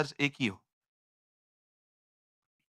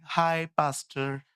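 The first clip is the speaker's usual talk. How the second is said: drawled casual hi; slower than usual. Retold or imitated. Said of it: "उस दिन आई एक बहन".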